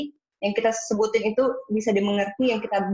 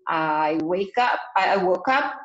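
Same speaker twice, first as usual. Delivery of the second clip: slow, lower, minimal answer; too-short answer; 3 semitones lower, slower than usual. Shown as a demonstration. Student gives a bare, minimal answer, slow and lower. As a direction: drag it out like a bored student. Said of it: "Misalnya hanya itu".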